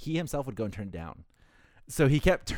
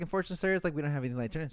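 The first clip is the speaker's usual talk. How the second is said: higher, sweet apologetic clerk; polite service voice; 4 semitones higher, much faster than usual. Retold or imitated. Clerk apologizing to the guest on the phone, sweetly.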